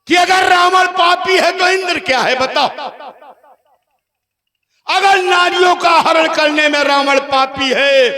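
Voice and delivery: ringing stage declamation easing toward the end; theatrical, insistent challenge; accusing Ravan. Acted. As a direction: put the gods on trial before the crowd.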